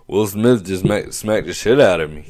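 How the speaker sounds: mock loud shocked exclaim; stunned outburst. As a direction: blurt it out to the crowd in shock. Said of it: "Chris Rock goes".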